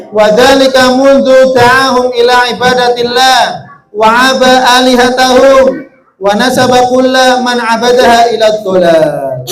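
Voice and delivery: fast, level-pitched Arabic reading; Arabic text reading. Acted. Teacher reading an Arabic text to pupils, fast and even. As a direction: read the Arabic out rapidly in an even tone.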